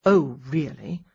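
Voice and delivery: heavy sarcastic drawl; great sarcasm. Acted. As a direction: sneer it, mock disbelief. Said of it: "with great sarcasm".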